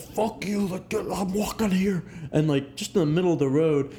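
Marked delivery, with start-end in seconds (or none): 0.0-2.0 higher-pitched mock yell, held back in volume; retold yell. Friend retells a man yelling at an ambulance, mock yell. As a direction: imitate a pedestrian's yell without the volume. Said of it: "he starts yelling at this ambulance".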